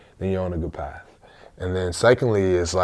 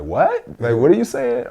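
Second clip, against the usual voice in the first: high, louder puzzled "What?"; baffled listener; 5 semitones higher, 6 dB louder than usual. Retold or imitated. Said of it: "And if people be like".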